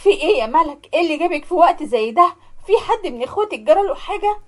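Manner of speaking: startled at her daughter's late visit; a mother's sudden fright at the door; alarmed mother. Acted. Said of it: "اتخضيت جدًا".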